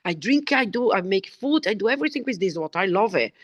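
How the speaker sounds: quick, bubbly daughter raving; excited daughter. Retold or imitated. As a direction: gush like a delighted teenager. Daughter's happy reply, retold.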